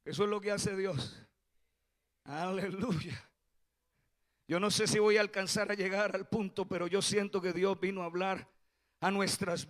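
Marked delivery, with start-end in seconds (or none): 2.2-3.3 slow, quiet aleluya; soft hallelujah. Acted.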